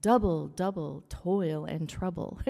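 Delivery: "Double, double toil and trouble" with DOU, DOU, TOIL, TROU punched; trochaic stress. Shown as a demonstration. Teacher giving an example of "Double, double toil and trouble", stressed trochaic beat. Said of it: "here's the good example".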